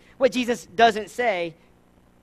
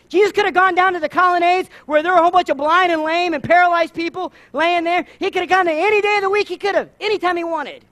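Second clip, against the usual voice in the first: emphatic preaching; 8 semitones higher, 8 dB louder than usual. Real, not acted.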